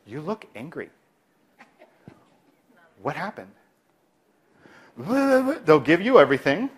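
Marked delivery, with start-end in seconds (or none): 0.1-3.5 soft, gentle question; calm concern. Shown as a demonstration. Provider noticing an angry patient, soft and gentle. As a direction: quietly acknowledge their anger. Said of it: "look at them and say".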